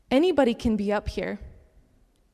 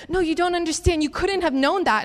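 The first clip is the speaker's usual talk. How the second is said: higher, urgent protest; overwhelmed insistence; 6 semitones higher, 3 dB louder than usual. Retold or imitated. Sobbing girl telling her she couldn't know, overwhelmed. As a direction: insist in amazed disbelief, pitched up.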